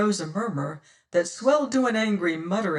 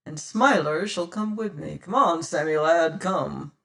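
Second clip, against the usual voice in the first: louder cunning captain; pirate captain; 5 dB louder than usual. Acted. Captain planning a false parley, confident. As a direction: plan the trick, sure of yourself. Tressady's voice.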